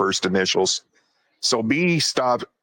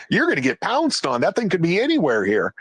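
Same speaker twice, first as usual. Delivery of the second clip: alarmed warning; 6 semitones higher than usual. Retold or imitated. Warning Jim off the bushes, alarmed and high. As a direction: pitch rising high in alarm.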